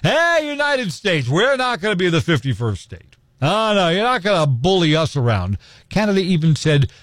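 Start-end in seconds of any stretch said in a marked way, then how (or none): 0.0-5.6 higher-pitched mock defiance; mock tough talk. Canadians defying the United States, mock tough talk. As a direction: imitate a neighbour putting up a tough front. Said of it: "they may be talking tough".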